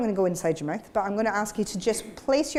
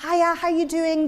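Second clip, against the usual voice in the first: higher, sing-song "Hiya, how you doing?"; talking to children; 6 semitones higher than usual. Shown as a demonstration. Teacher showing how adults speak to children in thin voice. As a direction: greet a small child, bright and high. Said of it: "when we speak to the children".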